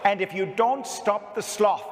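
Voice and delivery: put-on Irish accent, rising to a shout; harsh Irish schoolteacher tirade; Irish nun accent. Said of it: "sorry for the Irish here, 'cause I always do the accent".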